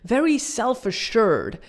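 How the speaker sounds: slow, deliberate delivery, each phrase drawn out; measured, very clear and unhurried; slow, clear, self-assured. Retold or imitated. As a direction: say it slowly and clearly, imitating an assured speaker. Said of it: "she speaks very slowly, very clearly".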